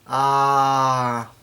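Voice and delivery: long, level "aah"; imitated scream. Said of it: "they yell out a scream".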